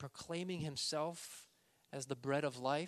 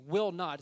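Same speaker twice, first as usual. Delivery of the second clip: "Will not" punched loud; loud double negative; emphatic; 3 semitones higher, 8 dB louder than usual. Shown as a demonstration. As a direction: hit both words of "Will not" hard. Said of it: "there's a double negative".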